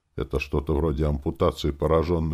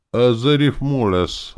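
ordinary delivery, nothing marked

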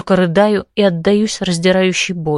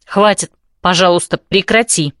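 stern. Acted. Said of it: "строго говорит Стеффи".

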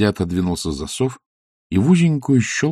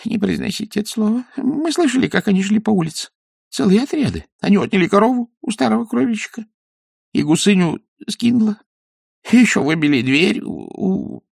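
frightened babble; 14 semitones higher than usual. Acted. Weaver terrified, babbling.

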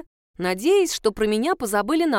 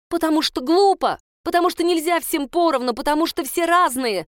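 loud, higher, heated argument; shouting back; 5 semitones higher, 4 dB louder than usual. Acted. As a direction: yell your point at the teacher. (кричит в споре)

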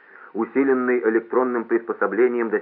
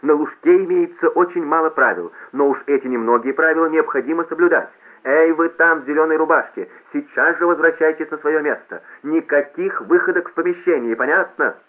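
high, loud public-address scolding; raised announcer calling out a rule-breaker; loudspeaker reprimand; 7 semitones higher, 6 dB louder than usual. A narrator's reading. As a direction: lay down the rules to the hall. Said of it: "молил громкоговоритель".

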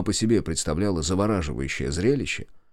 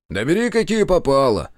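higher, louder grumble; grumbling; 7 semitones higher, 4 dB louder than usual. A narrator's reading. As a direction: grumble it off impatiently. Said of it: "ворчливо произнёс".

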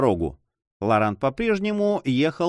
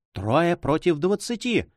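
higher, drawn-out admiring cry; rapturous exclamation; 6 semitones higher than usual. A narrator's reading. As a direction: marvel at it, slow and high-pitched. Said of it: "вскричала Донья Флора восторженно". (восторженный возглас)

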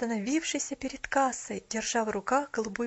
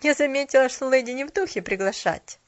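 1 slight anger; 3 semitones higher, 7 dB louder than usual. A narrator's reading. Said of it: "с лёгкой злостью".

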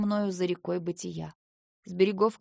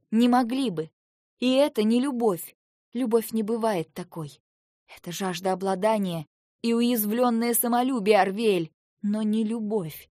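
firm rejection; 3 semitones higher, 4 dB louder than usual. Acted. Wife tells Arviel it is not love, firm and loud. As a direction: cut him off firmly.

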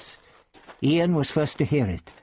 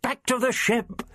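higher, urgent shouted warning; shouting; 11 semitones higher than usual. Acted. Ian caught in the web shouting the Doctor away, urgent. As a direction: warn him off, urgently. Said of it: "His further shouts".

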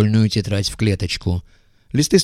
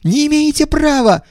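high, loud squeal; squealing shriek; 5 dB louder than usual. A narrator's reading. Иванов protesting the search, squealing shriek. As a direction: shriek it in outrage. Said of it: "завизжал Иванов".

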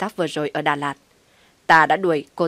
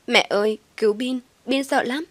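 put-on higher child's voice, crying out for mum; a small boy calling his mother in fear; child's scared cry, pitched up; frightened little boy; 6 semitones higher than usual. A narrator's reading. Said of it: "Tiếng kêu của Bin".

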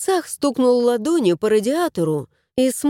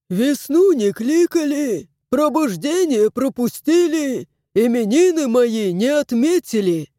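aggrieved house spirit. A narrator's reading. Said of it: "Домовой недовольно загибал".

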